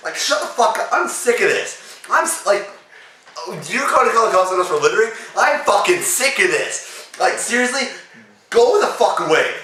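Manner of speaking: put-on high-pitched furious rant at the old man; ranting at the harasser, pitch way up; angry rant. Teen rants at the old man, high and furious.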